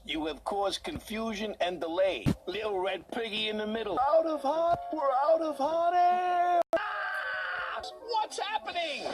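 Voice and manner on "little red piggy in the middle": teasing singsong. Acted. Taunting again.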